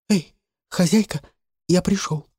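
put-on high, light boyish voice; a boy calling up to his mistress; boy's voice. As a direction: call in through the window as a young boy.

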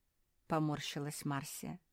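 ordinary delivery

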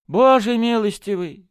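high, loud cry of amazement; shouted exclamation. A narrator's reading. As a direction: cry out to heaven in shock. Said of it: "закричал Браун". (громкий изумлённый крик)

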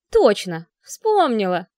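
light up with the memory; excited realization. Acted. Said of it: "оживилась подруга".

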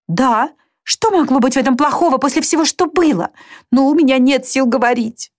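put-on high, anguished young sister; distraught girl lashing out at her sister; Marianne voiced. (высокий, страдающий голос Марианны)

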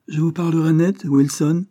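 no-nonsense warning to a colleague; firm and frank. A narrator's reading. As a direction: cut in and speak bluntly. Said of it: "interrompit Joyce avec fermeté et franchise".

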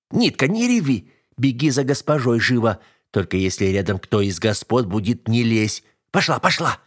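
urgent, no-nonsense servant commands; bossy servant woman. Acted. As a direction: shoo the crying girl off on an errand. Voices servant ordering girl off.

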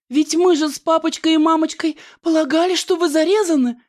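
high, fast fluttering fright; high, fast, hammed-up trembling heroine. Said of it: "вся трепеща сказала Аннушка".

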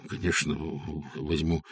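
mumbled. A narrator's reading. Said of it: "пробормотал Михаил Гаврилович".

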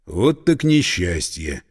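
slow, low sorrowful; sincere grief. A narrator's reading. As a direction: say it with real grief. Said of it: "Скорбь Синякова была совершенно искренней".

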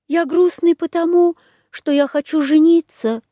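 high plaintive clown voice; mournful lovesick whine; sad Pierrot. A narrator's reading. (грустный Пьеро)

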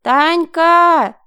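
shouted name; loud call. A narrator's reading. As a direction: call her name across a room. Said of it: "громко позвала она".

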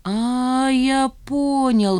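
a slow, sudden realisation; light up with understanding; exclaiming. Acted. Remizov suddenly grasping why Zhanna acted so, exclaiming. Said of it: "вдруг воскликнул он".

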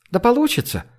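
high, airy wave-off; dismissive brush-off. A narrator's reading. Zhenya brushing off the worry, dismissive. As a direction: toss it off lightly. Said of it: "отмахнулась Женя".

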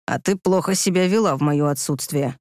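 a hint of a stern low voice; low man, lightly stern. A narrator's reading. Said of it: "сурово продолжил он".

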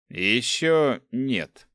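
slow, sneering dark ruler; lightly voiced evil emperor. Overlord's slow reply.

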